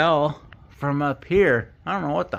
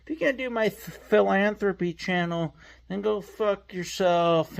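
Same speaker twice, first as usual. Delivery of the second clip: Mikey Pipes impression; 6 semitones higher than usual. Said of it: "so Mikey Pipes does this".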